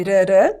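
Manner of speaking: "rarã" with light tongue-tap r's; tapped R sound. Shown as a demonstration. Teacher likening the T to Portuguese R, tapped. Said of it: "como se fosse o nosso R".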